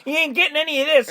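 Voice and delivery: high, huffy brush-off in a put-on voice; huffy boyfriend. Boyfriend snubbing the girlfriend before leaving. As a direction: storm off with a jab. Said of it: "quoting the boyfriend's exit line".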